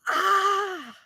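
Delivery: high voice through tears of laughter; words squeezed out by laughing; crying laughing. Real, not acted. Reader barely talking through laughter, crying laughing. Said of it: "I'm crying laughing".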